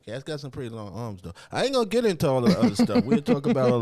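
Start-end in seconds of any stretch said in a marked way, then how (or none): 1.5-3.8 fast, loud excited rush; breathless excitement. Real, not acted. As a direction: blurt it out quickly. Excited aside, louder faster.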